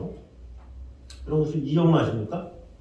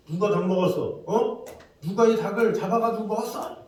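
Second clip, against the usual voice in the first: higher, harsh demanding soldier; mock interrogation; 5 semitones higher than usual. Nazi soldier interrogating prisoners about the chicken, harsh demand. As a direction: bark at the prisoners who ate it.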